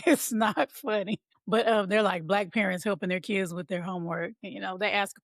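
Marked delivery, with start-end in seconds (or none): 0.0-1.2 said slowly through a laugh; slow, giggling mock-scolding. Real, not acted. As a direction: try to be serious and fail, laughing.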